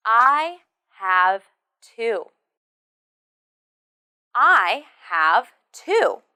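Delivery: slow, with "two" set apart and stressed; stress on the number. Shown as a demonstration. Teacher says listen to me please, number stressed. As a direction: land firmly on "two". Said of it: "the stress should be on the number".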